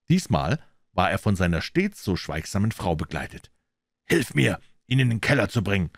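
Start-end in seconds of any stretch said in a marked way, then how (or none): 4.0-5.9 sharp command. Acted. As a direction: bark it at his wife. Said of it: "sagte er scharf und befehlend".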